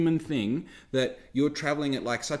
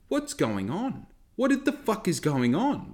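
higher, drawn-out exasperated what-the-fuck; slow, pitched-up exasperation; exasperated outburst; 5 semitones higher, slower than usual. Real, not acted. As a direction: throw it out in slow disbelief at slow drivers. Ranting about slow drivers.

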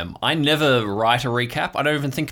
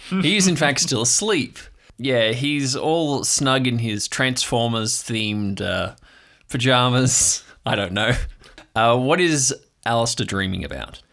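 game master narration. A narrator's reading. GM setting the dream scene for players.

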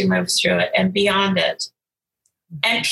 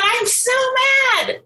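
high-pitched yell held at talking volume; mock yell of anger, pitch jumping up; retold angry yell; 13 semitones higher than usual. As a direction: imitate yelling out in anger, without full force. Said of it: "so I just yelled out".

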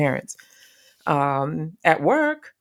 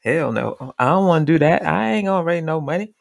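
inner refusal. Retold or imitated. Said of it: "in my head".

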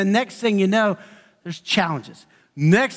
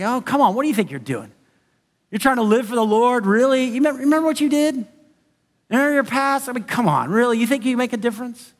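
higher, sneering ridicule; taunting critic; 3 semitones higher than usual. Retold or imitated. Mock taunting jeer. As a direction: critics mocking a believer's past, sneering and higher. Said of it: "they question your character".

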